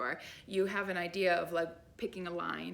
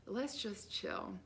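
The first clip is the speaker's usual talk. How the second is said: soft and slow; 5 dB quieter, much slower than usual. Retold or imitated. Calming inner voice agrees.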